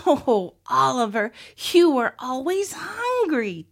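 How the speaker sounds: teasing lilt, rising high on "always hungry". A narrator's reading. Olivia to Oliver as he nibbles seeds, teasing. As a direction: tease him, voice climbing. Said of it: "teased Olivia".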